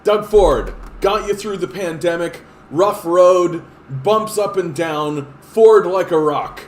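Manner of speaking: mock Ford campaign ad, loud and slow; truck-ad voice. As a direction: sell it like a pickup ad. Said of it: "Doug Ford's just gonna come out with".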